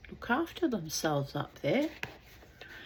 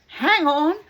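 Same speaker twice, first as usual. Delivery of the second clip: calling out; 9 semitones higher, 11 dB louder than usual. Acted. Man on shore answers.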